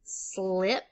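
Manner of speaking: "slip" stretched out with a long S and L; isolated syllable. Shown as a demonstration. Teacher giving the first syllable, "slip" slowly sounded out. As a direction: draw out "slip" as a syllable on its own. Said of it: "break it into syllables like this".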